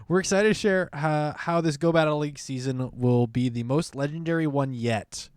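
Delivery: starts high like a butler, then eases back; a fading hint of butler. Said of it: "like French butler".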